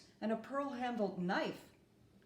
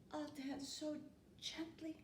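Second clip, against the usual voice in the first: a much softer, hushed promise; whispered promise; 6 semitones higher, 11 dB quieter than usual. A narrator's reading. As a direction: say it softly, like a child's secret vow. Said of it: "I promise in a whisper".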